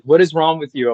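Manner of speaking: playfully appalled question; mock exasperation. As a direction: imitate baffled friends scolding you. Acts out everyone's exasperated reaction.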